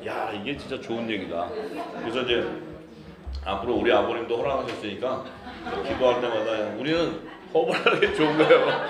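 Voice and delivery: ordinary talk, nothing marked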